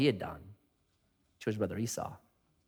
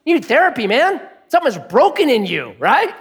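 raised, higher voice, incredulous; exasperated pastor; 8 semitones higher than usual. Retold or imitated. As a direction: push back hard on him, half laughing. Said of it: "I said".

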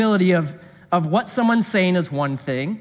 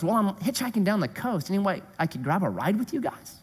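hitchhiker; 7 dB quieter than usual. Retold or imitated. Hitchhiker voiced quietly.

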